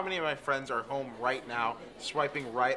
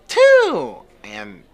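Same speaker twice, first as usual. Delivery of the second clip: pleasure moan; 10 semitones higher, 12 dB louder, much slower than usual. Acted. Sneeze moan.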